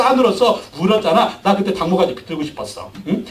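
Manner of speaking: lightly voiced exasperated rebuke; mock scolding. Jesus's imagined inner voice grilling Peter, mock scolding. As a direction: tease Peter with half-joking anger. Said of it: "예수님의 속마음".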